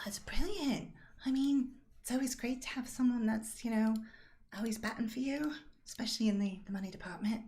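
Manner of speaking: high-voiced encouraging game character; Rosalind, pleased for friend.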